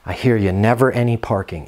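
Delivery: calm empathy. Shown as a demonstration. Manager calmly mirroring the tenant's complaint, low and calm. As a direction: mirror her words back calmly and kindly. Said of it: "Now notice my inflections in my voice".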